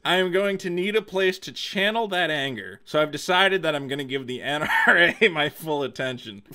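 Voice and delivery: fighting back laughter while reading; barely keeping a straight face, laugh breaking in; reading through laughs. Retold or imitated. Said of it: "can't read this with a straight face".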